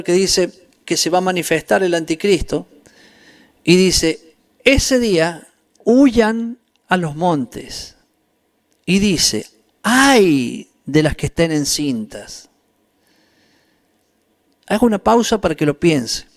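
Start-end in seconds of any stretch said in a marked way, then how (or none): 4.6-8.0 slow scripture warning. Acted. Preacher quotes Scripture warning. 9.8-12.5 slow lament. Acted. Preacher quotes Scripture lament.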